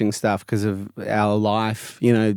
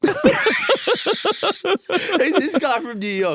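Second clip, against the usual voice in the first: mock suspicious local. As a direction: pitch jumps much higher on the repeat. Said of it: "They'll go".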